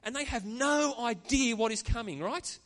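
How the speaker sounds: fighting back tears as the pitch climbs; moved, pitch high and straining; emotional. Real, not acted. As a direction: voice rising with emotion, close to tears. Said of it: "I actually started to get emotional and tears welling up".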